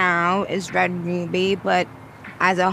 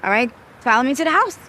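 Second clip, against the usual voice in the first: Jamaican accent; 4 semitones higher, much faster than usual. Shown as a demonstration. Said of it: "demonstrate a Jamaican accent for me now?".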